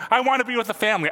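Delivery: mock whine of a kid wanting his family; lightly voiced upset little son; upset little boy. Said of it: "And he's crying".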